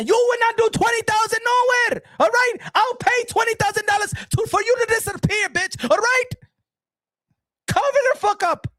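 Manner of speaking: high, shouted dismissal; mock-furious put-down; scornful rant. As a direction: flatly refuse the boast at a yell. Shouting down her boast.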